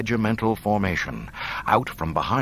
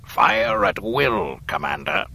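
sinister command; 4 dB louder, slower than usual. Acted. Emperor orders the firing.

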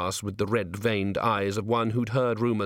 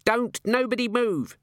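yelled order; 12 semitones higher than usual. A narrator's reading. Cherie bursts into the palace kitchen, yelling an order. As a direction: call out DON'T NOBODY MOVE at a raised pitch. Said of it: "she yelled".

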